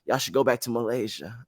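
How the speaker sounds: barely bother to speak up; sleepy dad. Retold or imitated. Dad woken by the phone call, answering softly. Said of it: "He's like".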